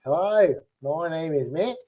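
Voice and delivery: lightly faked Australian twang; Australian accent attempt. Shown as a demonstration. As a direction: try Australian as southern-tinged British. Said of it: "the southern twang of British accents".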